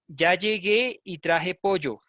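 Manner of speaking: llegué and pollo with y for ll, "yegué", "poyo"; imitated yeísta pronunciation. Teacher quoting what bothers her ear, pollo as "PO-yo". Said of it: "escuchar cuando la gente dice".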